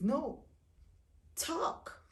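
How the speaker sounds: loud, high-pitched urging to open up; insistent husband. Retold or imitated. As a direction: push hard for an answer, imitating an insistent husband. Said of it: "he would insist".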